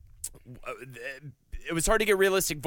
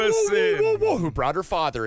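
startled whoa; 4 dB louder than usual. Real, not acted. Shocked reaction.

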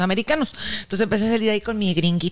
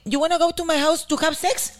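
imitating the Russian; 6 semitones higher than usual. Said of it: "Y me dice".

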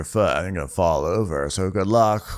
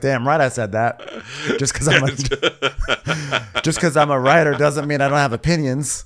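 higher, indignant mock author; Joyce Carol Oates; 6 semitones higher than usual. A writer insists she has opinions, indignant. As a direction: protest in a high, put-on voice while laughing.

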